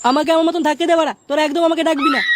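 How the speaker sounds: irritated friend raising his voice; angry. Acted. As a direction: tell them to leave you alone, snapping. Heartbroken friend snaps at friends. (বিরক্ত হয়ে রাগী গলায়)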